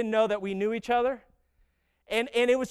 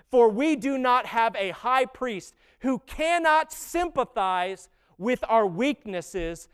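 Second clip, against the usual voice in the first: scripture reading. Acted. Reads Hebrews scripture slowly.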